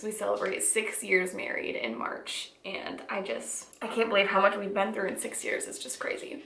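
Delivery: choked up, voice dropping away; fighting back tears, barely audible; snotty crying. Real, not acted. Overwhelmed by old letters.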